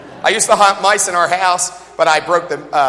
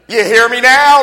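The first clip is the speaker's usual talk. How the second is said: loud, raised command; high, forceful divine order; commanding Holy Spirit; 6 semitones higher, 9 dB louder than usual. Acted. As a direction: call it out forcefully to demand attention. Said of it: "the Holy Spirit says".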